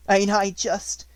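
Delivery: high, loud, slow hoarse urchin; a rough ragged beggar child; hoarse street urchin. A narrator's reading. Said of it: "she said in a hoarse voice".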